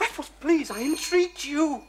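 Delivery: imploring a stubborn friend; anxious pleading. Acted. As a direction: beg him urgently, drawing out the words. Friend begging Raffles to hide loot.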